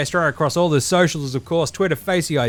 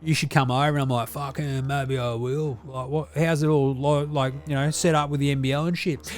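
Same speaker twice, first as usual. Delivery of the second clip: Deli character voice; 2 semitones higher than usual. Acted. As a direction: play the crude Aussie uncle reviewing telly. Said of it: "It's your old man Deli over here".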